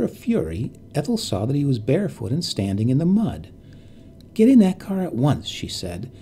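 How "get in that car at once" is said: angry command. Acted. Ordering the old woman and child.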